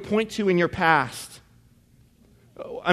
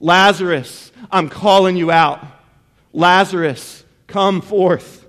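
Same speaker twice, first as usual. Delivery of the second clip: measured, projected summons, lightly raised; calling out loudly; 4 dB louder, slower than usual. Acted. Jesus calls the dead Lazarus out of the tomb, calling out loudly. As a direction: call the name firmly, pausing between summonses. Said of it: "he called out in a loud voice".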